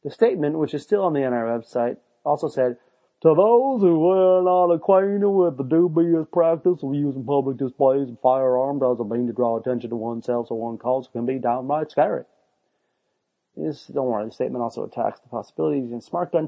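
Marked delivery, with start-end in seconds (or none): 3.2-12.2 stuffy official voice. Retold or imitated. Reading NRA statement mockingly.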